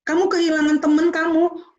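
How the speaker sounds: ordinary delivery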